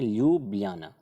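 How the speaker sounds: teacher modelling ल्यूब्लियाना with a y sound, not a j; ल्यूब्लियाना said lyoob-lee-yaa-na, clearly for students; Ljubljana pronunciation. Shown as a demonstration. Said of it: "इसका pronunciation जो है ल्यूब्लियाना ही पढ़ा जाता है".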